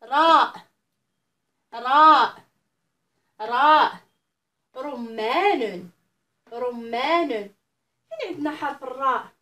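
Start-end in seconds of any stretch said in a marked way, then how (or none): 0.0-4.0 letter called out loudly, clear and drawn; loud model letter. Shown as a demonstration. Teacher drilling young pupils aloud. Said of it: "نعاودو الحروف مع بعض". 4.8-5.9 slow drawn word. Shown as a demonstration. Teacher modelling a word for children, very slowly. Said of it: "نعاودو الحروف مع بعض".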